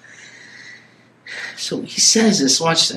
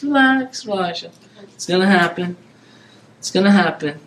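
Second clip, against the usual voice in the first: reassuring. Pretend. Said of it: "I says".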